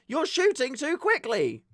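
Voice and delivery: high, slow mock marshal; whiny scolding voice. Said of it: "And they go".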